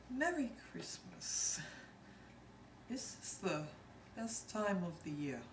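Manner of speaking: light Liverpool Scouse accent. Shown as a demonstration. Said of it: "the Scouse accent".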